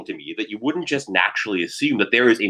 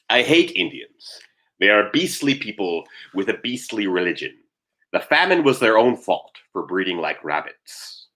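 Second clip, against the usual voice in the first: slow, measured quoting of a statesman; a slightly put-on orator's delivery, drawn out; Winston Churchill. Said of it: "Winston Churchill".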